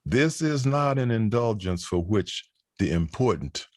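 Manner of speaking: measured spoken-word reading, phrase by phrase; poetry recital. Acted. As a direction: recite slowly, letting pauses hang between phrases. Recites second poem on stage.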